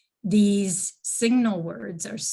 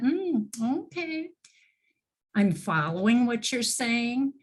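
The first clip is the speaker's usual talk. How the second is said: higher, light listener's mm okay; attentive listener; 4 semitones higher than usual. Shown as a demonstration. Teacher demonstrating a listener's backchannel, lightly voiced. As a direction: show you are following along. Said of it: "or that".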